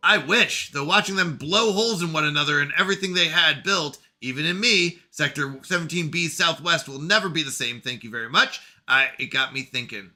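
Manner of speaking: lightly voiced bitter machine intelligence; AI character voice.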